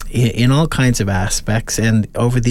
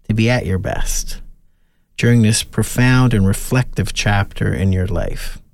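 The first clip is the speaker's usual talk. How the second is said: a gentle, measured blessing, lightly prayerful; calm closing prayer over grandparents; spoken benediction. Acted.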